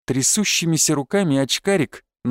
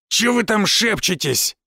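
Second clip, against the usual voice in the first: raised, slow thug's challenge; rough voice; 6 semitones higher, slower than usual. A narrator's reading. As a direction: butt in like a rude bully. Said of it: "послышался грубый голос за спиной". (грубый окрик громилы)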